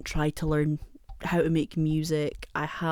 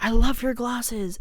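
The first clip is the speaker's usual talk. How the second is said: higher, louder, slow gushing compliment; imitating the shop lady; 6 semitones higher, 4 dB louder, slower than usual. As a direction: mimic a sweet stranger's praise. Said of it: "this lady was like".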